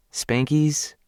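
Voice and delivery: "Spankies?" high with a rising tune; incredulous repeat. Acted. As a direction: toss back "Spankies?" as if it is obvious. She repeats the word for him.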